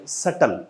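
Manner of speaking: सटल with no b, "SUT-al"; silent b. Shown as a demonstration. Teacher shows how it is said, silent b. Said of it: "वो silent रहती है".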